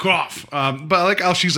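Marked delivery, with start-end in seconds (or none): 0.0-0.5 higher mock squawk; imitation bird call; bird caw. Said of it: "sounded like the bird".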